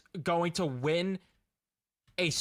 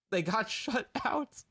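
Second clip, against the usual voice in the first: slow, laughing through the words; can't hold back a laugh at the shutout; laughing disbelief; 4 semitones higher, slower than usual. Real, not acted. Laughing at team being shut out.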